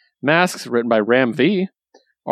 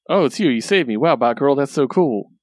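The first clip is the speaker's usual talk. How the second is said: lightly voiced goofy fanboy, higher at the start; goofy guy; 3 semitones higher than usual. Rescued guy thanking Batgirl, mildly goofy. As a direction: gush a little, imitating a goofy admirer. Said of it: "he's, like, really goofy".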